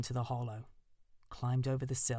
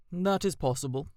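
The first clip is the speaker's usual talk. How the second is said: louder, measured owl; 3 semitones higher, 7 dB louder than usual. A narrator's reading. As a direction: grant it thoughtfully.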